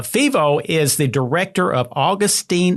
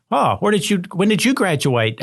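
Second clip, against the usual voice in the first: higher-pitched, lightly imitated arrogant challenge; mock arrogant; 5 semitones higher than usual. Conventional practitioner challenging a questioner, mock arrogant. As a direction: challenge them like a haughty expert, lightly mocking. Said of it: "out of some arrogant attitude".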